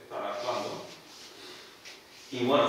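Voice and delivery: normal talking voice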